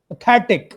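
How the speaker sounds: पैथेटिक with swallowed प and high stressed थे; stress on थेटिक. Shown as a demonstration. Teacher models पैथेटिक, प swallowed and थे stressed. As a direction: swallow the first syllable of पैथेटिक, punch थे. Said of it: "पैथेटिक पे stress है, प खाया जा रहा है".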